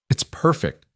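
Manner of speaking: put-on high, proud little girl; child announcing. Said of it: "Lily announced".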